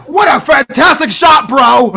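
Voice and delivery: mock commentator shout. Mock soccer commentator call.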